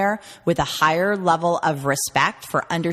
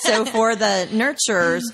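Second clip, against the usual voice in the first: laughing; 3 semitones higher than usual. Real, not acted. Laughing after colleague's joke.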